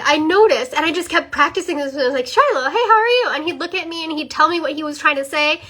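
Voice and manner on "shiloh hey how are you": higher, lilting call to a little one; cheery greeting to a child. Retold or imitated. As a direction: re-enact calling your young son for his attention. Re-enacts greeting her young son.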